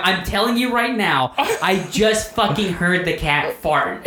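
high-pitched retold insistence, slowing at the end; emphatic insistence. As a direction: insist you really heard it. Acting out his insistence to wife.

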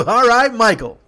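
high, loud playful cheer; hollered mock approval; imitated whooping approval. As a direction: mimic rowdy passengers teasing. Laughing passengers teasing the driver.

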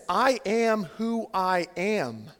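slow, weighty pronouncement; solemn divine declaration. Acted. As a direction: lightly voice God, word by word. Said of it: "God says this".

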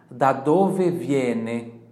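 very slow, loud, stretched; slow model question. Shown as a demonstration. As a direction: drill the question slowly. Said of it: "Então ele vai te perguntar assim". (pergunta lenta e alta para repetir)

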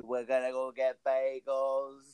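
slow Jersey accent, drawn out. Shown as a demonstration. Demoing the Jersey accent to his co-host, slowly. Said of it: "it is the, the Jersey accent. Listen".

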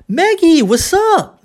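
high swooping "Maggie", then "what's up" as "wassup"; T dropped. Shown as a demonstration. Teacher modelling another form to Maggie, high with T dropped. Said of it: "Agora outra forma".

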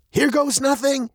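high, excited call; bracing exclamation. A narrator's reading. Dad fires the thruster at roadblock, high and urgent. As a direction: call it out before the plunge.

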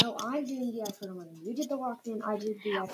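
quick bickering whisper; giggly prank whisper. Real, not acted. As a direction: whisper back fast and teasing. Siblings whisper-arguing.

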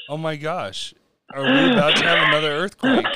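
mock alarm. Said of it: "that look of".

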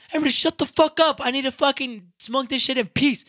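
bellowed plea for peace; retold exasperated shout. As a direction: shout down a rowdy crowd. Shouting down a yelling crowd.

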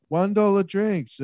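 lightly imitated high-pitched drinks offer; bar staff pitch. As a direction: put on a high voice for the sales pitch.

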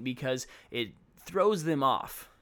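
ordinary delivery

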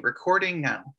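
man lightly voicing a woman director; a hint of a girl director calling it. Shown as a demonstration. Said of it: "this is my girl director voice saying".

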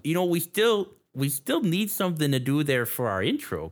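put-on Fargo accent; playful Midwestern accent. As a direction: suggest it like a Minnesotan. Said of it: "talk like we're from the Midwest there".

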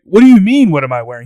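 high, loud mock protest; indignant retort. Guest answers the groom about his suit, indignant. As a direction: throw the question back, starting high and loud. Acted quarrel over the suit.

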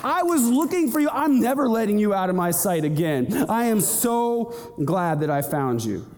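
high, overjoyed, calling out the years of searching; God overjoyed at last to find the lost one; joyful God finding you. Acted. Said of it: "He said".

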